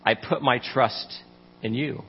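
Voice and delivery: slow, trusting scripture reading. Acted. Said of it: "he says".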